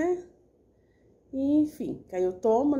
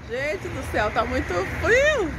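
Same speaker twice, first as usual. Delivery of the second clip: higher, louder and slow; exclaiming; 6 semitones higher, 5 dB louder than usual. Real, not acted. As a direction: drag it out in dismay. Complaining about the cold outside. (exclamando, arrastado)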